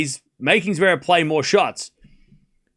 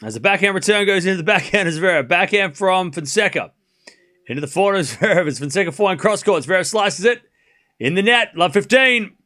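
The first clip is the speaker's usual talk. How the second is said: play-by-play; 3 semitones higher than usual. Real, not acted. Live tennis play-by-play.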